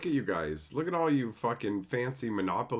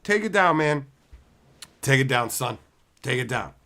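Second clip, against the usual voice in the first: mock calming down; 3 semitones higher, 6 dB louder than usual. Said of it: "people are just like".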